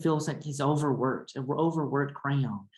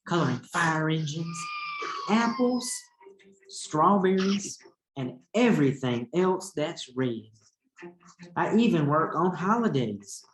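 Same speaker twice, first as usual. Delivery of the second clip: higher, fed-up voice of an overworked crayon; teacher voicing an exhausted red crayon's letter to Duncan, higher and weary; complaining Red Crayon; 3 semitones higher, 4 dB louder than usual. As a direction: whine about the endless work like a tired crayon.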